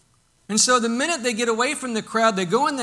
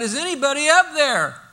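raised, higher hollering call; 7 semitones higher, 8 dB louder than usual. Acted. Man hanging from a branch calls for help, hollering. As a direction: holler it up to whoever might hear. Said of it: "then what he does is he hollers out".

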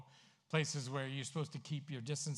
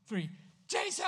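counted group shout; 6 semitones higher than usual. Pretend. Preacher imagining lepers counting down: shouted name. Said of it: "we don't know if they said".

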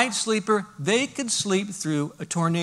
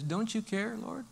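softer, hurt accusing prayer; a believer in crisis asking God why he's silent; hurt complaint to God; 6 dB quieter than usual. Acted. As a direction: plead quietly, feeling abandoned. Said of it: "the natural response oftentimes is".

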